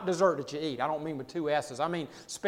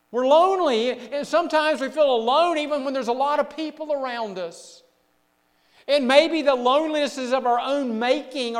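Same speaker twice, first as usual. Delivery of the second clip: higher, urgent preacher's voice; impassioned preaching; 7 semitones higher, 8 dB louder than usual. Real, not acted. Preacher speaking of loneliness in the wilderness, impassioned. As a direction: press the point on the congregation.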